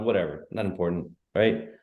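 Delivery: ordinary talk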